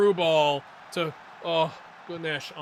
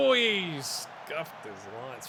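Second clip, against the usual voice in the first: dismayed shout; 3 semitones lower, 4 dB quieter, much slower than usual. Real, not acted. Chance missed.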